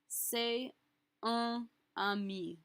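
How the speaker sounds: slow French with a nasalized "un", no full N; masculine nasal un. Shown as a demonstration. Teacher modelling masculine "un" for a male friend, slow and nasalized. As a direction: hold "un" as a nasal vowel. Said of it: "we're going to say".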